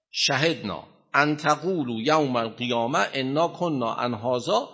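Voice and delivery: slow measured recitation, rising on الستو بربکم; Quran recitation. Acted. Teacher reciting verse 172 to the class, measured. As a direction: intone the verse slowly like a reciter.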